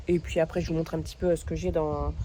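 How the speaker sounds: talking between sips; while sipping a drink. Real, not acted. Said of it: "je bois en même temps que je parle".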